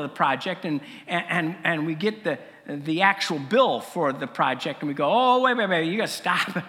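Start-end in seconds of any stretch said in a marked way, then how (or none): 5.1-6.6 mock alarm, calling off the work; alarmed halt. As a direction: act out a sudden panicked halt. Acted halt at seeing the bill.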